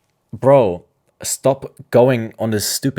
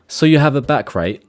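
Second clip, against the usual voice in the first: a light imitation of the scammer's broken English, pitched higher; 4 semitones higher, faster than usual. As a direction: read his texts in a mocking foreign-sounding voice. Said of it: "His English is so broken".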